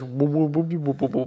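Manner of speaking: dumb amazed robot "whoa". Retold or imitated. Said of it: "Yeah, it goes".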